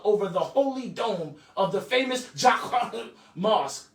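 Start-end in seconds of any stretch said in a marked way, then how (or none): 1.7-3.9 mock foreign pronunciation of "Jaqqa"; put-on foreign sound on "Jaqqa"; Amalekite voice. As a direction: catch "Jaqqa" in the throat. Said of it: "I think that was an Amalekite voice I just did".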